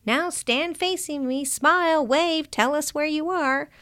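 put-on hustle the kids for a quick photo; rushing father. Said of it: "I didn't have more than".

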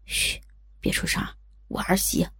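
hushed whisper, keeping it secret; hiding whisper. A narrator's reading. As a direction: whisper so the caller can't hear. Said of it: "中指放在唇边打了个手势".

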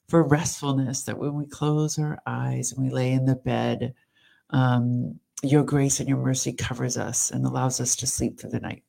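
earnest, evenly pitched prayer; spoken prayer. Real, not acted. Praying over a tired caregiver, earnest spoken prayer. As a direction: lead the group steadily in prayer.

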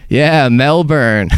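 slow, dry, flat delivery; drawn-out deadpan. Retold or imitated.

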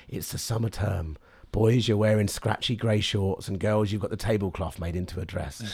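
low, measured voice easing them back to schooldays; silly bit. Retold or imitated. Comedian setting a summer-term scene for festival crowd, silly bit. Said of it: "a silly bit".

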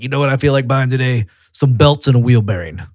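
mock New York customer, overly cheerful; New York accent. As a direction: ham up a Jersey guy who loves buying tires. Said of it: "why that guy was New York or Jersey".

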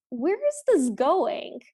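slow, emphatic quoted note; read out in caps. Shown as a demonstration. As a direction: lean on each word like it is in capitals. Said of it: "I have in all caps".

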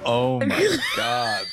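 shocked cry. Real, not acted. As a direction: cry out in horror. Shocked reaction to the fail.

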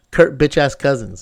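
Kirk bitch ass Cousins in one smooth run; said smoothly. Shown as a demonstration. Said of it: "I can say his name smoothly like that".

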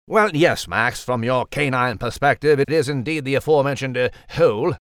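posh mouse and French cat voices; lightly voiced animal banter; mixed character voices. Mouse and cat trade lines.

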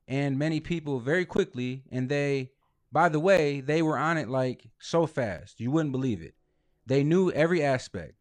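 reading his words aloud, choppy with pauses; Donald Trump. Retold or imitated. Podcaster reading Trump's unedited transcript verbatim, as Trump quote. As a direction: read out each short phrase, then pause. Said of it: "This is him saying that".

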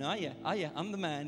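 playfully swaggering brag; mock show-off; cocky boasting. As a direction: strut through it, hamming up the self-congratulation. Peter acted as boasting to disciples.

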